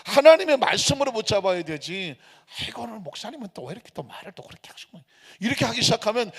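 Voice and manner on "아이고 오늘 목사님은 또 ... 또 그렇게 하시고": fast, hushed complaint; quick, much softer mock muttering; imitated grumbling. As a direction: grumble under the breath like a congregant. Congregant's grumbling, acted.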